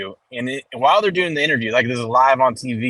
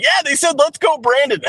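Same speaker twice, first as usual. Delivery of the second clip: much higher, cheery reporter voice; imitating the interviewer lady; 11 semitones higher than usual. Retelling the reporter's cover-up to his friend, higher. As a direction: play it cool and sweet, like nothing's wrong. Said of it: "She's like".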